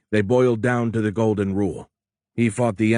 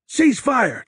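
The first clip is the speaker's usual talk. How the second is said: a full-throated roar, much higher and louder; roared order; 5 dB louder than usual. A narrator's reading. Charlie ordering the sailors to stop firing, roaring. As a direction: bellow it to stop the shooting. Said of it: "Charlie roared".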